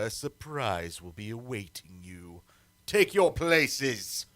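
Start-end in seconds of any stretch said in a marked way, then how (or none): 2.9-4.3 slow, drawn-out order; slow command. Acted. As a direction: let each word hang as you command. Emperor starts the torture test.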